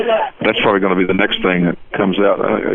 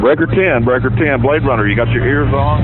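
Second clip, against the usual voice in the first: over walkie talkie; 4 semitones higher than usual. Pretend. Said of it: "if you just do Breaker ten".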